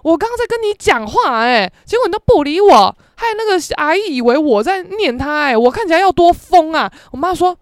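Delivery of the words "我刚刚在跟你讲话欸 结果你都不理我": scolding mom. Retold or imitated. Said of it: "电梯一关我就骂我妈".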